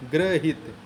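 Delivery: ग्रहित broken into "gra-hit"; correct syllables. Shown as a demonstration. Teacher repeats the corrected part, ग्रहित as separate "gra-hit". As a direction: spell out ग्रहित by sound, gra then hit. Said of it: "अनुग्रहित होता है".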